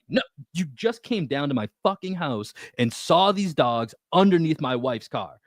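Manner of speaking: high-pitched indignant retelling; losing it. Retold or imitated. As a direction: replay the angry confrontation, stressing each charge. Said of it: "that's when I fucking lost it".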